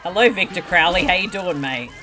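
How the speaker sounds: mock British greeting.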